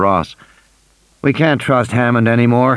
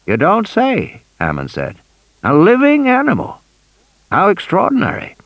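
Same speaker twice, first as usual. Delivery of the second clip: a hint of an eager old tycoon, higher; chatty old man pitching his park, pitched up; lightly voiced old man; 9 semitones higher than usual. A narrator's reading. Old Hammond pitching his park to Grant, eager and higher.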